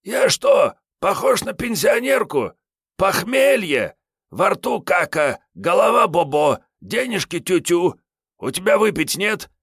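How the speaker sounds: high, loud whiny tramp griping; hungover Kiryay. Acted. Hungover Kiryay begging Sergey for a drink, high whine. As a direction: moan about the hangover, begging a drink.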